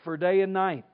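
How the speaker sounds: measured, emphatic Bible reading; formal scripture reading. Acted. Preacher reads Psalm thirty-two to standing congregation, emphatic reading. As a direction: read the psalm out firmly, with pauses.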